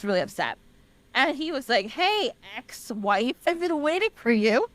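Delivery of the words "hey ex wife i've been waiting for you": drawn-out, needling greeting, rising in pitch; playfully acted spurned husband, slow start climbing higher; mock furious husband. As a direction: stretch out the ex-wife jab with mock menace. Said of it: "He looked furious".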